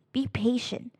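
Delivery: breathy unvoiced whisper, as if sharing a secret. Young researcher confiding her patient method in a whisper. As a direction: hush it like a secret tip.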